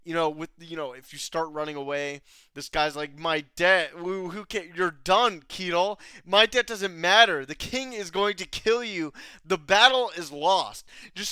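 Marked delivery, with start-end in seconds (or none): 3.2-10.8 indignant retort. Retold or imitated. Acting a deserter's angry retort.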